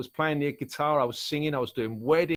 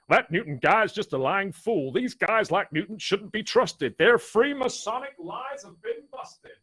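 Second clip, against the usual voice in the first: rhymed lyric recital; 3 dB louder than usual. Shown as a demonstration. Songwriter giving an idea of his book, reciting rhymed verse. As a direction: recite the rhymes like a spoken poem.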